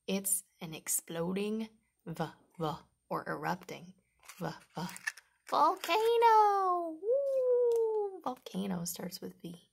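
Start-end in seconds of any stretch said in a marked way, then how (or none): 5.5-8.2 high, loud, slow exclamation; excited shout. Acted. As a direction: shout it out like an eruption. Erupting volcano exclamation.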